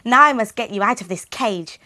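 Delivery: very high, loud joyful shout; joyful cry. Acted. Gretel runs to Hansel's cage, high joyful shout. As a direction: cry out with relief and joy.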